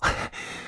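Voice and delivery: short quiet polite chuckle; a small salesman's laugh under the breath; soft customer-greeting laugh; businesslike chuckle. A narrator's reading. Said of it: "面带商业的微笑说道".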